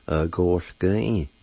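"Uh, gosh, gun in" said as uh-goh-gun-een, syllable by syllable; Cherokee word. Shown as a demonstration. Teacher showing the word for perceive, carefully. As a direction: say "Uh, gosh, gun in" in separate beats. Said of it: "like this".

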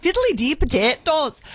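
put-on Irish lilt; Irish accent. Shown as a demonstration. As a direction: have another go at stage Irish. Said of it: "Irish accent".

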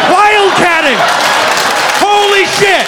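real comic delight at the word; excited outburst. Real, not acted. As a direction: burst out in gleeful disbelief. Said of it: "That's the best term I've ever heard".

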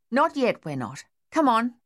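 mild pleading, up then down; a touch of imploring; implored. Acted. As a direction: beg him gently to come. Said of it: "Dave implored".

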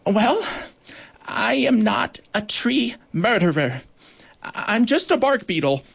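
high, timid little voice; tiny and shy, barely daring; small voice. Acted. Small prisoner pleading to the judge, in a tiny voice. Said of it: "with their voice so small".

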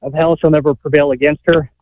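breathless from working; winded while talking; out of breath. Real, not acted. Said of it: "Sorry, I'm out of breath".

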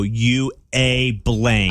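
very slow, drawn-out insult; mock indignation. Prankster finally turning on scammer, acted indignation. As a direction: land each word slowly on the scammer.

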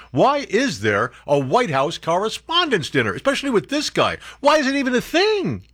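angry rant at the press dinner; rising outrage. Real, not acted.

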